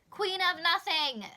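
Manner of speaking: loud, high, drawn-out cry of the title; excited shout. Real, not acted. Answering the anticipated-release question, shouting the title. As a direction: announce it like you can't wait.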